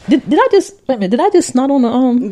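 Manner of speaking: laughing with a snort; snorting laughs. Real, not acted. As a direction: snort and snot while laughing. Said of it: "Yeah, you did".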